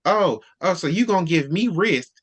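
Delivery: acted-out affront, building in emphasis; upset, affronted. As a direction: play her wounded indignation. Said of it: "That's why she was so upset".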